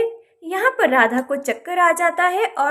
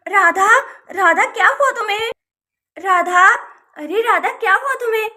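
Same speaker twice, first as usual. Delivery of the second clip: alarmed calling; 3 semitones higher, 4 dB louder than usual. Acted. Neighbour tries to rouse fainted woman.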